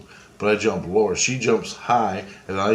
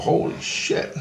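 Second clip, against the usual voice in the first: whispered; slower than usual. Retold or imitated. Stunned reaction to past life.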